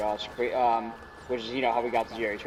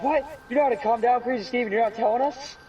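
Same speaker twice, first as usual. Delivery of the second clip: high, loud mock disbelief; hammed-up incredulous protest; incredulous sitcom characters; 12 semitones higher, 4 dB louder than usual. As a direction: exclaim in comic outrage. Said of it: "They're like".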